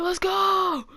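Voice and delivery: fight-starting hype. Retold or imitated. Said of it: "trying to start a fight".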